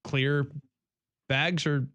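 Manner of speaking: ordinary delivery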